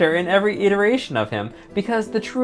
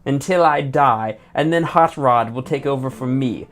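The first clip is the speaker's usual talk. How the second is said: mock Richard Magnus. Streamer mocking Ultra Magnus for chat, lightly pompous voice. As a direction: ham up a self-important commander introducing himself. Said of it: "not Richard Magnus".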